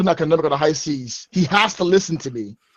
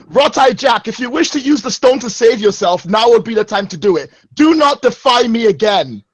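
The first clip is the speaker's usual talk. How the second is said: stern rebuke; 4 semitones higher than usual. Acted. Captain rebukes crewman.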